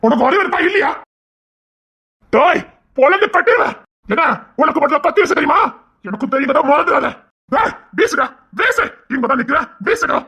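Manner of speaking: high, raging threats; furious threats. Acted. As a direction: dare him to throw it.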